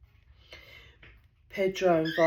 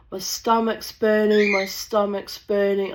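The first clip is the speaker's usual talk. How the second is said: mock whiny Gail; 3 semitones higher, 6 dB louder than usual. Gail phones next morning complaining.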